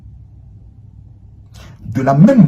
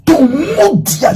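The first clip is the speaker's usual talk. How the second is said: sweet high voice; 13 semitones higher, much slower than usual. Shown as a demonstration. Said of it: "je parle comme ça avec tout le monde".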